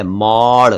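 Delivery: मौड़ with an open au vowel; say maud. Shown as a demonstration. Teacher showing viewers the vowel, open au in मौड़. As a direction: stretch the औ in मौड़ clearly. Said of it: "यानी म पर औ की मात्राएं".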